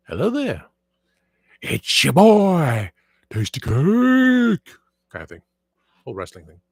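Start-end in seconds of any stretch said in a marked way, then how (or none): 0.1-0.7 high suave "Hello there"; lifted Obi-Wan Kenobi hello. Retold or imitated. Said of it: "I do the Obi-Wan". 1.6-4.8 slow, loud, high wrestler promo; drawn-out loud high "Tasty Cake"; Ric Flair voice. Retold or imitated. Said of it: "I do Ric Flair".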